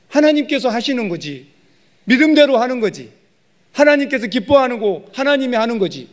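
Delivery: emphatic high-pitched preaching; forceful preaching. Real, not acted. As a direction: drive each phrase home from the pulpit, pitched high.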